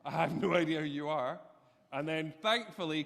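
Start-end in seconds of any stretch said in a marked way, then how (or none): 0.0-1.4 nervous inner voice. Retold or imitated. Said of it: "I was really nervous".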